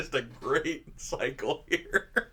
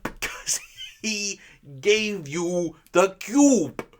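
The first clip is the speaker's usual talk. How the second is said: breathy whispered aside, laughing through it; mock obvious answer; 6 semitones higher, 4 dB louder, much slower than usual. Mocking obvious answer to stupid question.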